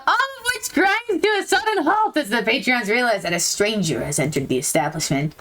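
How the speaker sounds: story narration. A narrator's reading. Reads the game's narration aloud.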